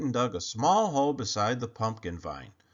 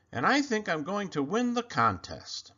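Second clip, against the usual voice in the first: put-on higher, excited boyish boast; proud boy; 7 semitones higher than usual. Clayton boasts to himself about his pumpkin, high and proud. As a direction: crow about it like a proud kid.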